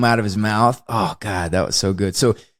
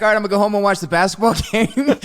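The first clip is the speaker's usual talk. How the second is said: imitating character; 6 semitones higher, faster than usual. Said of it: "he's like".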